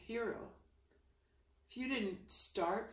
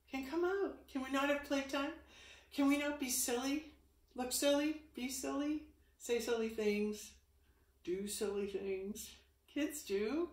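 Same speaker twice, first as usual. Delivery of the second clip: excited urging; 5 semitones higher, 5 dB louder than usual. Real, not acted. Urging viewers to be silly.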